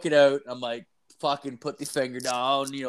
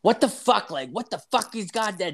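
squeaky mimic of a nagging girlfriend; mock angry girlfriend; 9 semitones higher than usual. Girlfriend voiced scolding in story.

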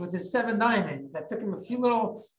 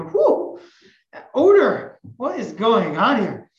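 disgusted exclaim; 2 semitones higher, 6 dB louder than usual. Acted. Family reacts to the stink.

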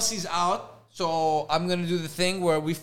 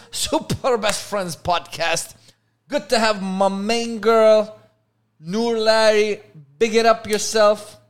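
slow, louder announcer swagger; mock hype host; 3 semitones higher, 5 dB louder, slower than usual. Host welcoming co-host in a mock MC voice. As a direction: drag out the intro like a hype MC.

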